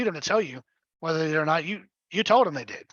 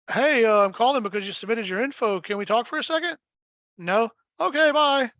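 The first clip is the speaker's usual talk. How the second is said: bad agent call; 5 semitones higher than usual. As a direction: mimic a terrible cold call, rising to a squeaky bye. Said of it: "it was fucking horrible".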